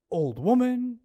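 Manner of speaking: a restrained imitation of a scream; mild mock yell. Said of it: "She screamed".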